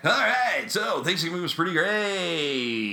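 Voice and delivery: upbeat morning radio DJ voice; radio host voice. Acted. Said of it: "I'm gonna do my morning radio voice".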